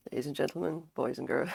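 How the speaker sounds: raspy announcer greeting; hoarse sick voice. Real, not acted. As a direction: croak it out grandly. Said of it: "I sound hilarious".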